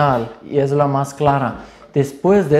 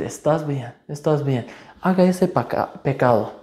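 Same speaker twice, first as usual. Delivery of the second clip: softer, slyly soothing temptation; Satan's coaxing voice; 5 dB quieter than usual. Retold or imitated. Satan coaxing the believer into sin, soft and sly. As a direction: lure them gently toward sin. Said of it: "Satanás ... primero va a decir".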